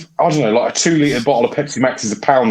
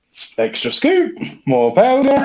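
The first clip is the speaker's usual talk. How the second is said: very high, gleeful little voice; eager milkshake maker; 12 semitones higher than usual. Retold or imitated. Retelling making a Nesquik milkshake, high eager voice. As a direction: squeak it out like a greedy kid. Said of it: "I used to be like".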